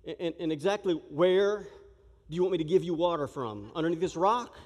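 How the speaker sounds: flustered and sarcastic, give me a break; exasperated sarcasm. Pretend. Preacher imagines himself as Moses answering the crowd, sarcastic. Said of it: "I'm gonna be like".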